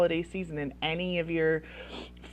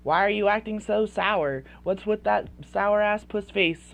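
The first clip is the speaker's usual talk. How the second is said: louder acted scolding; calling out; 3 semitones higher, 5 dB louder than usual. Parent calling out a moody child, scolding. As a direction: confront the child, exasperated. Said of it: "you call them out".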